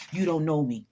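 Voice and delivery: forceful motivational voice; David Goggins. Acted. Coaching listeners to tell people off, forceful. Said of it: "In my David Goggins voice".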